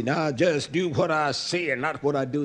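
lightly voiced elder, pitch lifted; old ones' saying. Preacher quoting the old ones to the congregation, lightly imitated elder. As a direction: imitate an old-timer laying down a rule. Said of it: "As the old ones would say".

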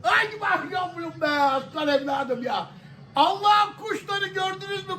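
high, overjoyed shouting; excited cheer. Real, not acted. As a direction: crow over the rivals. Celebrating second goal.

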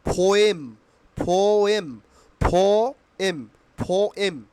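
"পোয়েম" as drawn-out "pho-em"; model pronunciation. Shown as a demonstration. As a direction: stretch "পোয়েম", puffed P. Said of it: "পোয়েমের উচ্চারণ হবে কি". ("পোয়েম" টেনে ফো-এম বলে)

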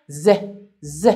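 short buzzed "ز", said alone twice; letter's sound. Shown as a demonstration. Teacher showing how the letter is pronounced, short sound "ز". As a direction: say "ز" as a brief "ze", not its name.

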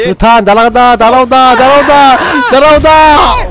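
grenade warning yell. Real, not acted. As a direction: build up the alarm as the grenade flies. Calling grenade warning in game.

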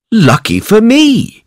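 high, delighted farmer voice; gleeful farmer. Acted. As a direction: squeal with glee at the find. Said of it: "said the farmer".

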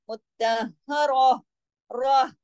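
slow मुत्तहर ending in an audible breath of h; stopping on ha. Shown as a demonstration. Teacher shows the pausal form, मुत्तहर closing with h. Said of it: "आखिर में हा की आवाज आनी चाहिए".

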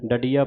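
ਡਡੀਆ as da-dee-aa, retroflex d; pronunciation demo. Shown as a demonstration. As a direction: say ਡਡੀਆ with curled-tongue d, da-dee-aa. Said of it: "ਪਾਠ ਬੋਲੇ".

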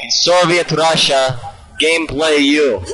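mock Russian accent. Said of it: "your Russian voice".

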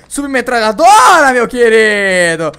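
slow, loud, high gloating; hammed-up triumph. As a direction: savor the word like a prize, loud. Found a submachine gun. (exagerado e triunfante, lento e alto)

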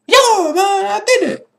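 high laughing victory shout; triumphant cheer. Real, not acted. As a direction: cheer like you just won. Beats level, laughing cheer.

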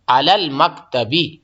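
अलल मकतबी slow, final बी drawn out; careful repeat of अलल मकतबी; slow model. Shown as a demonstration. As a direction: stretch अलल मकतबी so the i ending is heard. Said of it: "बा के ऊपर जेर आ जाएगा".

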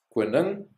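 "Koning" said high and clear as a model word; Afrikaans word said as a demo. Shown as a demonstration. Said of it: "let's do ending in I N G".

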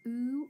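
ooh said as a drawn long vowel; teacher showing what OO can say; long oo sound. Shown as a demonstration. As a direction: stretch out the ooh. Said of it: "can make two different sounds".

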